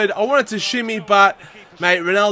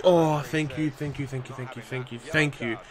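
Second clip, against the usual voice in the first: lower, much softer murmured relief; relieved thanks; 6 semitones lower, 10 dB quieter than usual. Real, not acted. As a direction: breathe out your thanks to the ref. Relief after no red card.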